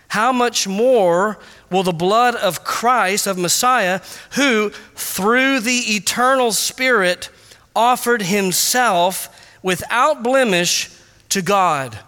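slow, deliberate verse reading; scripture reading. Shown as a demonstration. Pastor reading the verse aloud, slow and deliberate. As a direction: weigh every phrase. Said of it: "verse read slowly".

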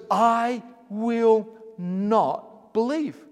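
slow, drawn-out stubborn refusal; lightly voiced doubting Thomas, stretched out; Thomas refusing. Thomas refusing, sermon retelling.

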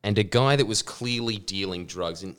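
ordinary talk

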